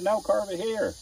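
retold insistence. His own reply retold.

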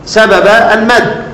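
slow, with the vowel in المد drawn out long; stretched madd. Shown as a demonstration. Teacher to students, demonstrating madd, stretches المد slowly. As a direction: draw out المد as the teacher shows the elongation. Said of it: "الحاجة اللي بتمد ده تتمط كده".

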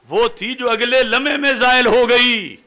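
usual speaking voice

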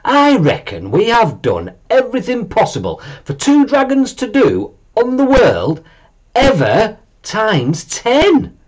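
put-on high, childlike dragon voice; young dragon voice. A narrator's reading. Bob asking Mum what to do, high childlike voice.

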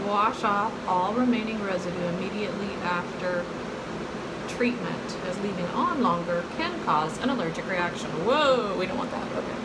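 talking with face mask on; through a sheet mask. Real, not acted. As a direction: lips framed by mask. Seen 5: Sheet mask covers face, mouth opening; removed around 13 seconds.

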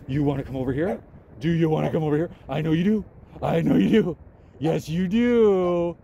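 put-on high sing-song baby talk to a dog; doggy baby talk. Vlogger coaxing a stray dog with high baby talk. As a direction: coo at the dog like it's a puppy.

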